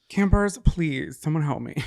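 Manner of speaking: drawn-out playful plea; mock cry for help. Driver begs the campers for rescue, mock-desperate. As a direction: plead theatrically to the listeners. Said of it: "my cry for help".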